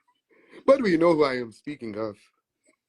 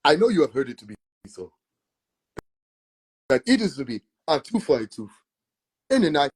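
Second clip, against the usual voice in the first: put-on faster biblical King James preacher accent, rising as he goes; the corrected old-English Jesus voice, proclaiming; right Jesus accent; 3 semitones higher than usual. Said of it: "I'm getting the right accent".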